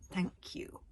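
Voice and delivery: whispered sneering thanks. Acted. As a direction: sneer it back at the boy. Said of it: "sneered the thin prefect".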